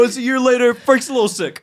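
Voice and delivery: lightly imitating the director; quoting the director. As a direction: mimic his casual aside, half laughing. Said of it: "He said, you know".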